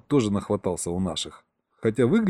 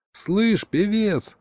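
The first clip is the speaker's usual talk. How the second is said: much higher, gleeful shout into a mic; a higher joyful yell down the microphone; 10 semitones higher, much slower than usual. Acted. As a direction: call out happily over the radio. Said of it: "заорал я радостно в микрофон".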